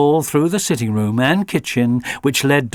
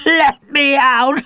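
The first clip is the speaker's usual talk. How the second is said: high, louder, slow rising plea; begging dog; 6 dB louder, slower than usual. A narrator's reading. Alfie begs again from the van, high slow dog plea. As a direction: beg through the door like a trapped dog.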